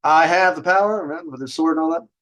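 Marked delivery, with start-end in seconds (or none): 0.0-1.0 heroic battle cry, higher and louder; mock heroic cartoon shout; He-Man. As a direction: shout it like a cartoon hero raising his sword. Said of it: "He-Man, He-Man".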